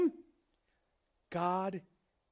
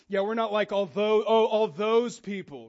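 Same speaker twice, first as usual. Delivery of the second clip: pinky-out snobbery; 4 dB louder than usual. Pretend. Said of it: "pinky out".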